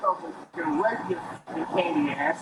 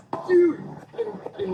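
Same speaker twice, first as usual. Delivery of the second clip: angry shout; 9 semitones higher than usual. Real, not acted. Drunk man swearing at officers.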